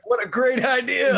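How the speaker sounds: sarcastic. Acted. Player voices waking sarcastic character.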